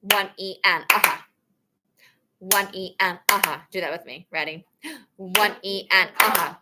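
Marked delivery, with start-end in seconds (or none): 0.0-3.6 faster count. Shown as a demonstration. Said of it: "at a faster tempo".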